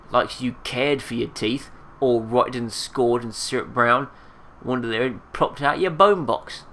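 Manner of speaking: indignant rustic character voice, drawn out. Acted. Marta puffed up at a corpse, indignant. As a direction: huff it back at your accuser. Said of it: "puffs up indignantly".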